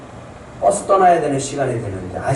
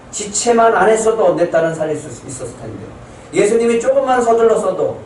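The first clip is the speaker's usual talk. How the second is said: resentful father's complaint; 5 semitones higher than usual. Acted. Father of a dying daughter blaming Jesus for stopping, resentful raised plea. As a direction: blame Jesus for the delay, voice lifted high. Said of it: "원망이 생기는 거죠".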